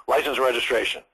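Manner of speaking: curt cop demand, no pleasantries; authoritative police officer. Acted. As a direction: state it as the one in charge. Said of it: "show you that they're authoritative".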